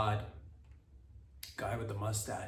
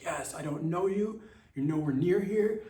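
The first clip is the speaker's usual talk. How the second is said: higher and louder, cheering for strangers far away; excited cheer; 6 semitones higher, 3 dB louder than usual. Retold or imitated. Comic fan cheering the news from far away, high and loud. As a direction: cheer for people you don't know. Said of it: "You get excited for the people".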